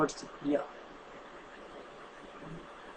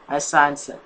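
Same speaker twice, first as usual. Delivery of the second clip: usual speaking voice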